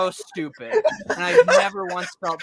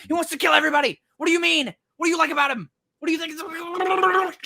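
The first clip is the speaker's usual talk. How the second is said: building exasperation; 6 semitones higher than usual. Retold or imitated. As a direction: pester the character, building to a shout. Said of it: "I'm just like".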